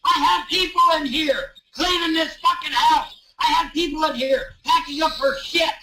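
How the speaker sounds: shouting through tears; real grief and rage breaking out; tearful yelling. Real, not acted. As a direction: cry out in anguish over the room. Distraught man yelling over the hosts.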